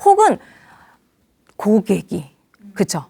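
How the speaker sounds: normal talking voice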